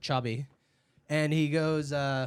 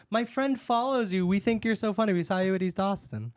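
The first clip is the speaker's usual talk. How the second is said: excited fan; 4 semitones higher than usual. Retold or imitated. Customer fan voiced in story.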